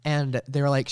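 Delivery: ordinary talk, nothing marked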